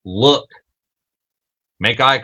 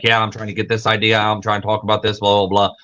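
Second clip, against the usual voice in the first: fast, tumbling words; mock rushed ramble; rushed talk demo; faster than usual. Shown as a demonstration. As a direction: rattle it off like you can't stop. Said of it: "I talk really fast and I'm going like this".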